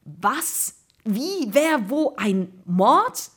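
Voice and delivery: string of high, startled questions; baffled questions. A narrator's reading. Two boys understanding nothing, astonished. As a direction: fire off each question in disbelief.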